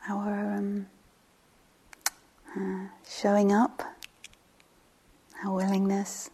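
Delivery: unhurried meditation guide, long pauses between phrases; guided meditation. Real, not acted. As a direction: settle listeners gently, leaving space after each phrase.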